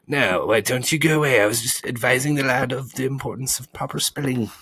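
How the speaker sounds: high, irritated spelling bee; indignant bee. A narrator's reading.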